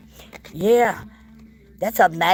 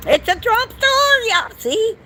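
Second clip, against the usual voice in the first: excited squeal; 13 semitones higher, 4 dB louder than usual. Real, not acted. Excited discovery in the store.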